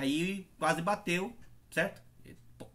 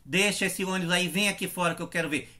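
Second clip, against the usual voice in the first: retold argument. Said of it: "E briguei mesmo".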